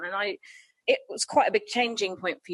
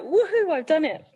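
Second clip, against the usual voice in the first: a high, bright little cheer of victory; mock triumph; 7 semitones higher, 4 dB louder than usual. Imitating a thrilled artist hearing her song. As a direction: cheer it like you just made it. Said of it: "that's a real, like".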